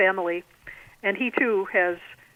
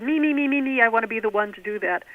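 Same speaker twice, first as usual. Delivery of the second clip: higher, quick eager pleading; retold hand-up volunteering; 3 semitones higher than usual. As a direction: jump in like a keen kid volunteering.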